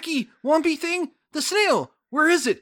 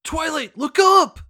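louder call to look up; louder mock warning to Twilight; 4 semitones higher, 4 dB louder than usual. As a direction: shout a warning like a cartoon pony. Calling out warning in scene.

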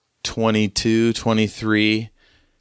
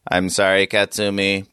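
robotic voice. Acted. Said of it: "this robotic voice go".

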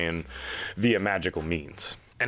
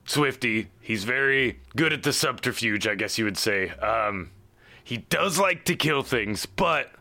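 lightly voiced gnome boss vouching for his crew; earnest Aldalar; 3 semitones higher than usual. Aldalar vouches for his boys to Horace, hesitant and reassuring.

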